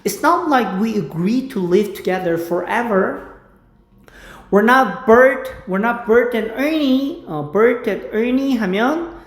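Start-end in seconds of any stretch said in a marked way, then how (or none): 0.0-7.2 slow, stretched English line; slow drill. Shown as a demonstration. Teacher repeats the line slowly for practice. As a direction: drag the words out slowly. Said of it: "slow repetition drill".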